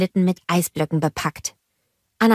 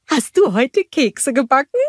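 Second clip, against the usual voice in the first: higher, put-on voice for Gerda; Gerda character voice; 8 semitones higher, 4 dB louder than usual. A narrator's reading. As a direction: play Gerda with her head in the icebox.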